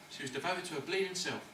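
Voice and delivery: a quiet sneer under the breath; scornful mutter. Real, not acted. To Harry about the dog woman, a soft scornful mutter. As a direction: drop it soft and scornful, \"bleeding\" sneered low.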